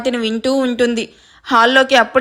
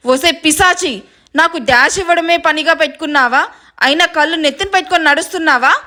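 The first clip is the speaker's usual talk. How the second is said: mildly angry scolding through gritted teeth; understated seething rebuke; gritted-teeth anger; 3 semitones higher than usual. Acted. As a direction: snap in annoyance at whoever bumped you. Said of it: "పళ్ళు నూరుతూ".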